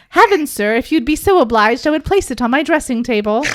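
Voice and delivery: lightly hammed archaic gentleman; old-timey gentleman. Podcaster voicing Simon in old dude style, mock formal. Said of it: "we're gonna do this in old dude".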